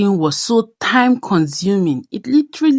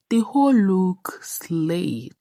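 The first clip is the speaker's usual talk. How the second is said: whisper; slower than usual. Real, not acted. Proud aside about her outfit.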